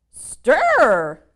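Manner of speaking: a loud, high call; mother's call. Acted. Mother monster calls to her little ones, loudly. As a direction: call it out like a busy monster mom. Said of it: "called the ma".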